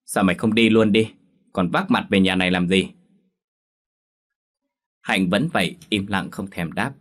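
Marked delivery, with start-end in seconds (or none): 0.0-2.9 louder, scolding his daughter; angry father. Acted. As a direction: snap at her like an enraged father. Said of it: "thì tức gan". (người cha giận dữ quát con)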